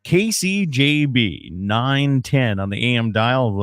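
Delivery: big, bright on-air show opening; radio announcer. Acted. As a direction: announce it like a morning radio host.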